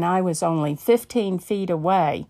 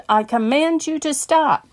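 commanding shout; 8 semitones higher, 4 dB louder than usual. Retold or imitated. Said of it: "I yelled".

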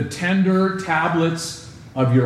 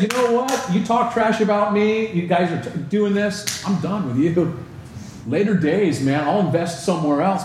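higher, exasperated imagined Paul writing them off; fed-up brush-off; 4 semitones higher than usual. Retold or imitated. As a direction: toss them aside, higher and done with it. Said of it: "He could have said".

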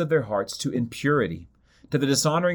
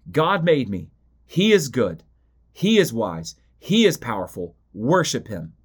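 each short phrase punched firmly and a little louder; loud and clear, emphatic; 3 semitones lower than usual. Acted. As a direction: proclaim it like creation insisting. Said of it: "says loud and clear, emphatically".

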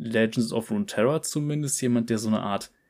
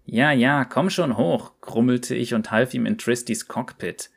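lively storyteller reading a cocky character's tale; story narration. A narrator's reading. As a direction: read it like a cheeky yordle telling his own adventure. Liest Rumbles Geschichte vor. (lebhaftes Vorlesen einer Geschichte)

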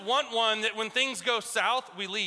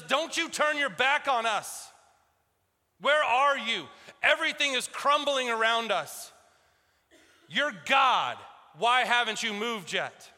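raised, pleading yell at God, slow and insistent; angry cry to God; 3 semitones higher than usual. Retold or imitated. Habakkuk yelling at God where are you, angry. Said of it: "he does so really in an angry way".

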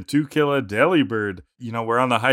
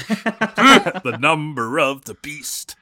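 spooky voice; 3 semitones higher, 4 dB louder, much slower than usual. Pretend. Spooky joke about six six six.

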